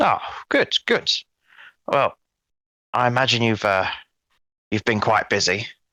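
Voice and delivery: somewhat somber, subdued, slightly worried and uneasy. A character replies after hearing the team has been holding on, somewhat somber, maybe worried. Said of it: "he seems somewhat somber, maybe worried".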